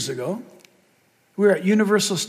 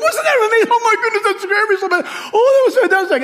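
high, thrilled gushing; high-pitched mock excitement, a bit louder; 12 semitones higher, 4 dB louder, faster than usual. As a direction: rave like a thrilled rider. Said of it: "They're going".

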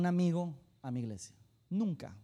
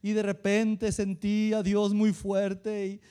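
mock teary testimony; 4 dB louder, slower than usual. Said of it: "así como que entre llorando".

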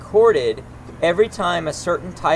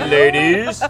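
deep voice; 6 dB louder than usual. Pretend. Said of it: "but in a really deep".

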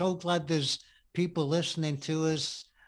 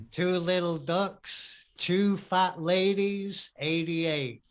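slow, drawn-out bingo hall call; bingo caller; 3 semitones higher, slower than usual. Retold or imitated. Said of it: "That's what they do in bingo".

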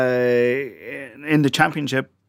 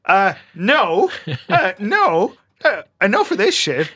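higher, laughing mock protest from the defender; laughing mock defiance; 7 semitones higher than usual. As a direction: play the outraged centre back, chuckling as you go. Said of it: "the Leeds United centre back going".

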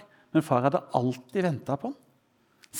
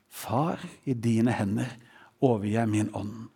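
trusting; 6 semitones lower than usual. Acted. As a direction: let go gently, fully at peace. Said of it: "Det er tillitsfullt".

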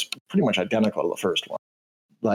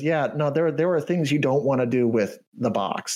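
eager canary twin; 4 semitones higher than usual. Acted. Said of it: "nods vigorously and says".

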